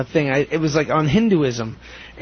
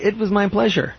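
polite phrase; 3 semitones higher than usual. Shown as a demonstration. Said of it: "you're supposed to say".

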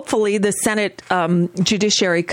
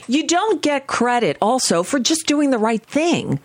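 building from firm to high-pitched exasperation; exasperated rant; 8 semitones higher than usual. Real, not acted. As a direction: climb steadily into an indignant high cry.

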